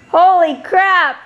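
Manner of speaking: loud, slow amazed outburst; surprised exclamation. Real, not acted. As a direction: blurt it out in shock. Husband sees weight loss.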